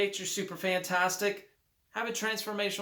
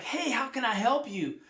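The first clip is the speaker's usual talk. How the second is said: chipper; 5 semitones higher, 3 dB louder than usual. Retold or imitated. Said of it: "She's all chipper and excited".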